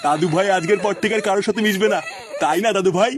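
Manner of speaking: chuckling gently; laughing while talking. Acted. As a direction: soothe with a little laugh. Grandpa soothes with a laugh.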